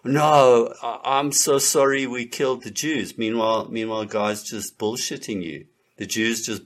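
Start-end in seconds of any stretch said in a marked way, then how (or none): 0.0-3.2 lightly voiced cringing apologizer; mock apology. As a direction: blurt the apology in a put-on voice. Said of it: "and then you're like".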